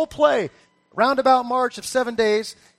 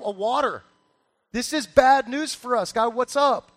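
a touch of mock indignation, pitched up; exclaimed protest; 3 semitones higher than usual. Preacher voicing the king questioning God, mildly exclaimed protest. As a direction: plead the king's case to God. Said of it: "exclaimed the king of Israel".

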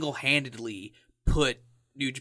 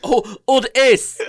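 amused; 10 semitones higher, 9 dB louder, slower than usual. Real, not acted. Repeating the joke chant.

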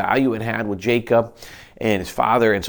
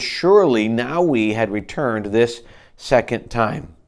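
earnest scripture reading. Acted. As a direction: plead as Judah, measured. Reads Judah's plea aloud.

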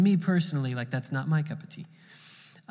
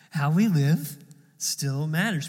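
slowly, giving weight to each word; slow emphatic repeat; slower than usual. Shown as a demonstration. Pastor repeats the principle so the church remembers it, slow and weighty. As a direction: let it land, word by word.

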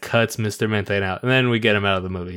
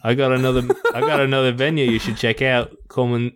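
put-on accidental Australian accent; 3 semitones higher than usual. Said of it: "like, Australian".

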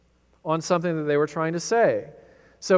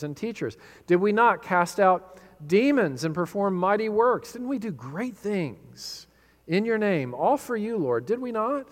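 pleading protest. Acted. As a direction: protest their good works to the Lord. False disciples pleading to Jesus.

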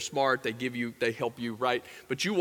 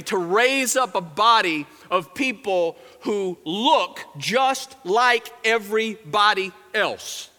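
slow, emphatic declaration, lightly voiced; Jesus; slower than usual. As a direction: weigh out each word with authority. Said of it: "he says".

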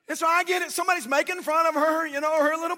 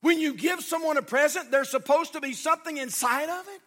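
raised, higher scolding voice; mild retold yell; 4 semitones higher than usual. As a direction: imitate an angry father's telling-off. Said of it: "He began to yell at his little girl".

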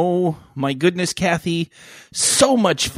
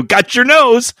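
raised, louder playful teasing; teasing grown-up; 8 semitones higher, 6 dB louder than usual. Retold or imitated. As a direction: tease like playing with a kid. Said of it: "when you're a kid and they go".

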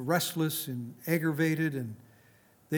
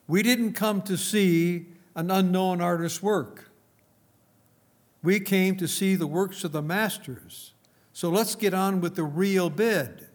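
retold angry shout; 3 semitones higher, 3 dB louder than usual. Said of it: "another voice shouted angrily".

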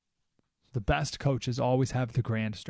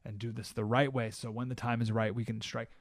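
lower, steady, measured reassurance; calm patient leader; 4 semitones lower, 4 dB quieter than usual. Retold or imitated. Alexander calmly restraining his advisors, lower and patient. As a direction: speak like a patient king. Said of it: "and he said".

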